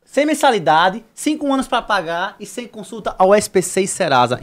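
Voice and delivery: slow emphatic ad pitch; hard sell ad. Acted. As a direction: push the offer hard. Continues sponsor ad.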